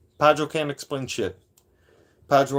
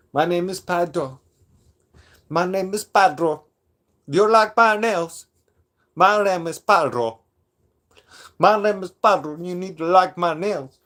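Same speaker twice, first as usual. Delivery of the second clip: high, accented mocking caricature of a rival; hammed-up put-on accent, pitched up and insistent; Padro; 5 semitones higher than usual. Streamer mimicking his rival for viewers, high mocking impression. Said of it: "Did I pull that off pretty good?".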